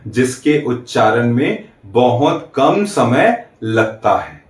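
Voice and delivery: slow, word by word, so students can write it down; slow dictation. Shown as a demonstration. Teacher dictating a definition to students, slow and deliberate. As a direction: dictate it slowly for note-taking. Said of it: "तो आप note कर लीजिएगा".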